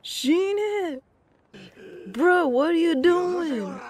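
high, slow furious yell at the enemy; shouting at the game. Real, not acted. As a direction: bellow it at the screen.

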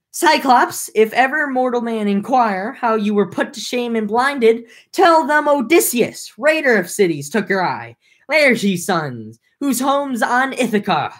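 shouted high across the water at the giant; defiant yell. Acted. Odysseus yelling his name back at the blinded Cyclops, boastful shout.

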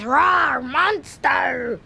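loud playful rawr; monster growl. Retold or imitated. Little brother playing monster at the door, loud growl. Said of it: "He says".

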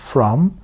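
From with a full open vowel; full careful From; careful form. Shown as a demonstration. Teacher shows the normal full From to students. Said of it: "normal olarak okunduğunda from diye".

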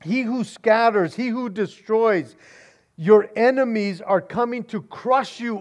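a hint of a booming narrator. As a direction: announce it like a voice over the movie. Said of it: "you hear this voice that says".

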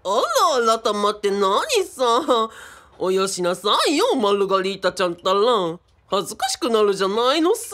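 lightly put-on old Edo storyteller speech; a hint of a rakugo master's Edo manner. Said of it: "なんか話し方めちゃくちゃで".

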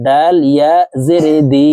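long held vowel on "দি"; one-alif stretch. Shown as a demonstration. Teacher demonstrates the madd rule, stretched vowel in "দি". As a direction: spell it out, then draw "দি" out for one alif. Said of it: "একালিফ টেনে পড়ব".

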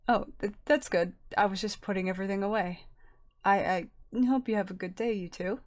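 quiet, stuttering shopkeeper voice; calm stutter. Acted. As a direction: stumble calmly over words. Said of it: "the speaker stutters in a calm tone".

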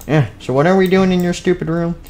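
high, annoyed whine. Acted. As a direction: whine it impatiently. Annoyed sibling.

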